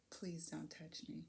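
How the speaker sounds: soft and slow, held back; a hushed, measured plea to the driver; quiet request. Retold or imitated. To the driver touching her back, soft and slow. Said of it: "I said".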